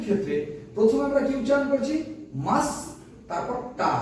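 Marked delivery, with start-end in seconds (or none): 2.5-2.7 মাস as one isolated beat; separate syllable. Shown as a demonstration. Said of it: "দুই ধাপে উচ্চারণ করলাম". 3.8-3.9 টা as one isolated beat; separate syllable. Shown as a demonstration. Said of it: "দুই ধাপে উচ্চারণ করলাম".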